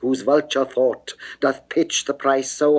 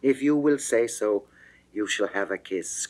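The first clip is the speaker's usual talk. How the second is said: ordinary delivery, nothing marked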